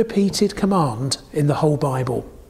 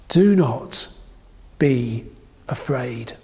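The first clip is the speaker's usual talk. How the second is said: fading to a whisper; 6 semitones lower, slower than usual. Shown as a demonstration. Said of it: "fades to whisper".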